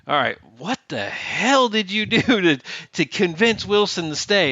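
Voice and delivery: slow, stern master chief demanding an answer; gruff chief. Retold or imitated. Master chief grilling him about convincing Wilson, slow and stern. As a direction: play the boss grilling you in his office. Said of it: "and he's like".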